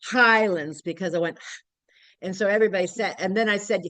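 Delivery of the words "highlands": "Highlands" said clearly as the garbled form of Islands; a mock slip on "Highlands"; misheard lyric. Shown as a demonstration. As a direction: say "Highlands" as if you meant Islands. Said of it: "it sounded like "Highlands".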